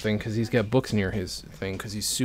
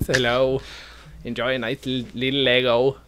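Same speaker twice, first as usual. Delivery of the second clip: put-on German accent; 3 semitones higher than usual. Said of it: "I'm doing German voice".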